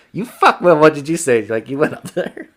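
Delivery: high-pitched mock incredulity; incredulous. Hunting partner hearing where he climbed, mock incredulous. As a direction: imitate a buddy who can't believe it. Voicing partner's reaction at reunion.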